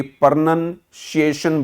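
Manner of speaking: "प्रोनंशिएशन" opening with "par" and using "shee"; common mispronunciation. Shown as a demonstration. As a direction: say "प्रोनंशिएशन" slowly as par-nan-shee-ay-shan. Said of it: "ninety eight percent लोगों को नहीं बोलना आता". ("प्रोनंशिएशन" को पर-नन-शिएशन बोलें)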